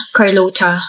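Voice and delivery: Carlota with English r and a ch sound, kar-LOH-cha; English-style Carlota. Real, not acted. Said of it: "Kasi ganyan mo binabanggit yung pangalan ko". (Carlota na may Ingles na bigkas, parang kar-LOH-cha)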